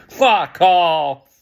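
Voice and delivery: loud, furious fuck off; angry shout. Real, not acted. Furious fan tells the lazy players to go, loud. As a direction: spit it out at the players.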